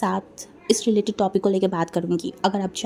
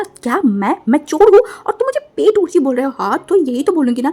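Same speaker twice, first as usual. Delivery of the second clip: angry retort; 4 semitones higher, 5 dB louder than usual. Acted. Quarrel continues.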